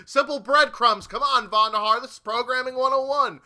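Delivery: exasperated. Real, not acted. Exasperated rant at developer.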